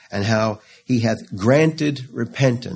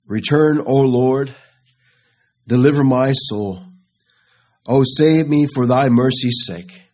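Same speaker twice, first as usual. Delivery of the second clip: solemn scripture reading; 3 semitones higher, 4 dB louder than usual. Acted. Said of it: "God's word declares in Psalm six".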